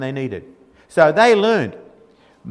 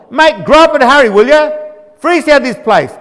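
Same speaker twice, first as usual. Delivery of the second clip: loud, high, pushy "hurry up, mate"; hollering at baby Moses to hurry, a bit hammed-up; impatient call; 6 semitones higher, 7 dB louder than usual. Impatient slaves to baby Moses, loud mock urging.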